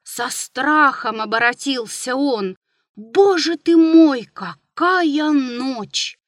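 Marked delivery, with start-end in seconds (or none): 2.9-6.2 louder, higher, then slow; gasping horror at the dark; awed exclamation. A narrator's reading. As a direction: cry out in dread at the night. Narrator's terrified exclamation.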